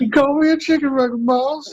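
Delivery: high-pitched mock Alabama voice; Alabama accent. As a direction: squeak it out as an Alabama yokel. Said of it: "That's all our Alabama accents".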